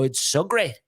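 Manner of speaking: New York politician impression; boastful American showman's voice; Donald Trump. Shown as a demonstration. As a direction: put on the famous president's New York delivery. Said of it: "you get the Donald".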